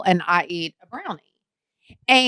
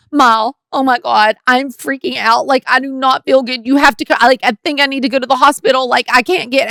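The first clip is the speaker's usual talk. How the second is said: freaking out; 3 semitones higher than usual. Retold or imitated. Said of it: "I am freaking".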